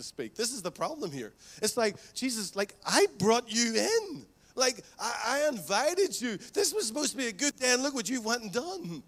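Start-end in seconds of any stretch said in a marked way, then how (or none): 2.1-9.0 offended whine. Acted. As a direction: play the host who feels wronged, pitch up and push. Offended host complains to Jesus.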